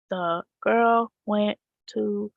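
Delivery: slow, halting word-by-word reading; choppy robotic reading. Shown as a demonstration. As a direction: read it slow and stuck. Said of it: "reading like a robot".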